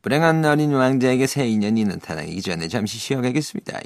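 a light snake voice redo. Shown as a demonstration. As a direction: hiss the line like a snake, lightly. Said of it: "그 뱀 목소리로". (살짝 뱀 목소리)

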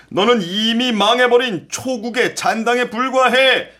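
rising, scornful taunting; arrogant general. Acted. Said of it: "크게 웃으며 대답한다".

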